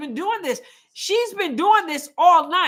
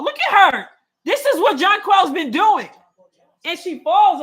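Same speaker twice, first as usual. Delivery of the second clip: higher and louder, half laughing in disbelief; louder and higher, a laughing outraged fan; indignant outburst; 4 semitones higher, 5 dB louder than usual. Real, not acted. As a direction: point it out loud to the room, laughing at the nerve. Indignant fan pointing out a foul.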